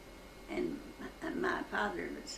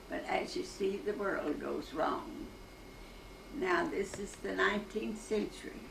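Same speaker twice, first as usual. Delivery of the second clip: measured, rhythmic verse recital; poem recitation. Shown as a demonstration. Centenarian recites her school poem for an interviewer, reciting in cadence. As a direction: recite a childhood suffrage poem from memory, line by line. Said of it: "would you like to recite your poem".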